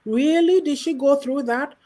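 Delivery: a hint of a shocked reader; imagined surprise. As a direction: gasp it out like you can't believe it. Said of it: "you'll say".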